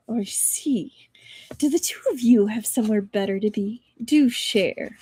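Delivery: a lightly voiced menacing half-whisper; sinister voice. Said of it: "a sinister voice came from behind".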